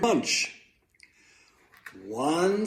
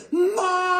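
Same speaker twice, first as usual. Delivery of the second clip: long, very high screaming call; full-volume yell; 6 dB louder than usual. A narrator's reading. Boy failing to wake mother, all-out yell. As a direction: yell it as loud as possible, held long. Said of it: "Luke yelled as loud as he could".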